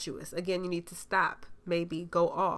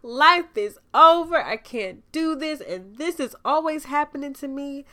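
hammed-up despair, louder and higher; mock melodrama; 6 semitones higher, 8 dB louder than usual. Mocking viewers who overreact to a red light, hammed-up wail. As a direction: overplay a tiny mishap like the world is ending. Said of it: "take a little minor inconvenience".

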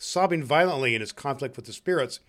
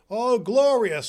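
high, loud, delighted cry; rapturous exclamation; 9 semitones higher, 6 dB louder, slower than usual. Acted. Scrooge hears Christmas bells ringing, rapturously. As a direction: exult with a falling swoop.

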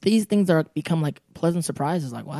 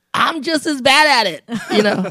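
laughing; 8 semitones higher, 6 dB louder than usual. Real, not acted. Joking self-mockingly while laughing.

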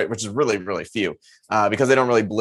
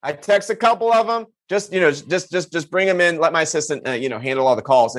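high, laughing mock-casual brag; smug buddy; 5 semitones higher than usual. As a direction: play it cool, chuckling at how easy it was. Buddy's smug retold reply.

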